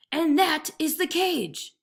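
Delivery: slow, loud over-explaining; impatient tiger. A narrator's reading. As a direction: spell it out to a fool.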